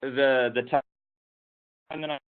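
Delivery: words lost in dropouts; choppy internet audio; voice cutting out. Real, not acted. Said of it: "you're really cutting out".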